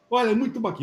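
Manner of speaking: mildly worked-up imitation; excited retelling. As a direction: imitate an enthusiast, lightly acted. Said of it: "Ele ficou todo acelerado e falou".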